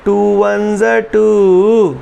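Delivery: slow, drawn-out chanting teacher; teacher's sing-song drill. Retold or imitated. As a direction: stretch each word like a teacher making kids repeat. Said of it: "madam बोल रही होती हैं". (बच्चों से रटवाती madam जैसा धीमा सुर)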